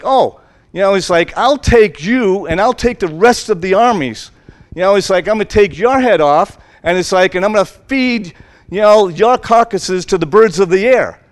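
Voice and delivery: lightly voiced bully giant; sneering threat to the shepherd boy; giant's threat. Goliath threatening David.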